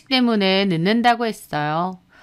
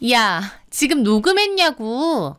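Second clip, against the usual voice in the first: slow, menacing demand; irritated interrogation; confrontational demand; 2 semitones higher than usual. Acted. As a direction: press for an answer, drawn out and cross. Sister-in-law confronts the eavesdropper.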